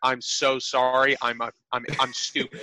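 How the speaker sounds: slow, softening, sheepish plea; retold apology. Forgetful worker apologizing to annoyed coworker, sheepish.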